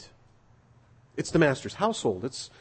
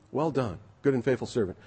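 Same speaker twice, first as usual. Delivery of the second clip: softer repeat; 2 semitones lower, 5 dB quieter than usual. Acted. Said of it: "Hear what he says".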